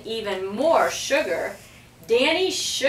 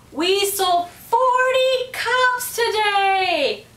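high, slow, loud proud announcement; excited shout; 11 semitones higher, 4 dB louder, slower than usual. A narrator's reading. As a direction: call it out with pride. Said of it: "Sherry shouted".

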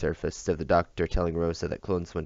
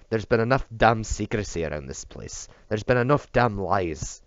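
put-on raised, louder drunken anger; angry outburst; 4 semitones higher, 4 dB louder than usual. Drunk bodyguard rails against the lies, louder and angry. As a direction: hurl it at the whole place.

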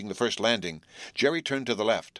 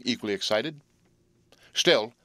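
ordinary delivery

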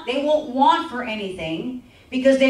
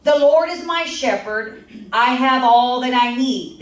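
scripture reading; 4 dB louder than usual. Acted.

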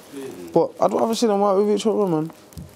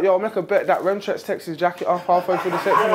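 quoting through laughter; 2 semitones lower than usual. Retold or imitated. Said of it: "Zeus said yesterday".

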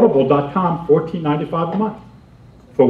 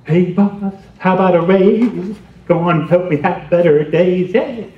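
mock raise request; slower than usual. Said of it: "Practice ways to ask your boss".

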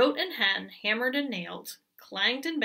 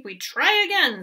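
insistent goat; 6 semitones higher, 7 dB louder than usual. Acted.

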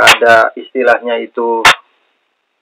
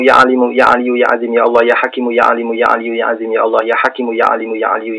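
prayer recitation; 2 semitones lower than usual. Acted. Healer recites prayer over video call.

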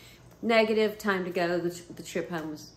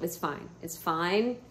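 self-soothing; 2 semitones lower, slower than usual. Retold or imitated. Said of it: "I was telling myself".

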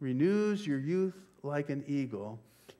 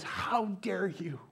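whispered accusation; 5 semitones higher, slower than usual. Retold or imitated. Victim confronting the prosecutor.

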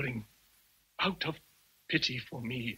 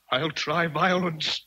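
threat; 5 semitones higher, 5 dB louder, slower than usual. Acted. Rochester threatens Jane.

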